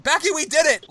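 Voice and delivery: high, loud joyful cry; retold yell. Captain shouting to his teammate after winning, high loud yell. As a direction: shout the win to your teammate. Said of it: "He's just yelling".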